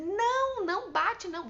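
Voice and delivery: put-on high, loud "no" to a child; demonstrated shout. Shown as a demonstration. Parent stopping older son hitting the younger, mock shout. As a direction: cry out to stop a hit, acted. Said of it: "Você vai gritar".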